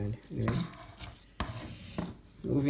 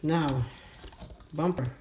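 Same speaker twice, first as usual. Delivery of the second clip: short of breath, a bit strained; 4 semitones higher than usual. Real, not acted. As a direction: talk while winded from effort. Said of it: "Whew, I'm out of breath there".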